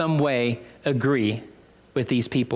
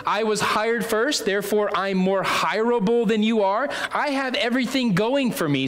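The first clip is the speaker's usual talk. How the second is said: higher-pitched self-important worker; boastful superiority; 4 semitones higher than usual. Acted. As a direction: brag about being first, pitched up. Acting workers who think themselves greater.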